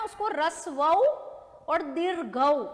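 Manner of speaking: रसवऊ और दीर्घऊ धीरे, हर शब्द अलग; बच्चों को समझाते हुए धीमे बोलो; slow teaching read. Shown as a demonstration. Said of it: "छोटा ऊ और बड़ा ऊ है ना". (धीमी समझाने वाली आवाज़)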